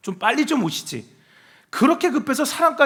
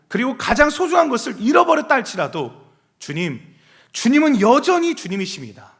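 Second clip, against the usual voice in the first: louder and higher, fervent vow of trust; fervent confession; 5 semitones higher, 3 dB louder than usual. Acted. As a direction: pour out an unwavering confession. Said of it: "이런 고백인 거예요". (높고 힘차게 믿음을 고백하는 목소리)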